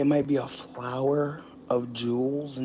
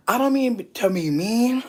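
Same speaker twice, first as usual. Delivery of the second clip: laughing; 7 semitones higher, 5 dB louder than usual. Real, not acted. Laughing, high and slow.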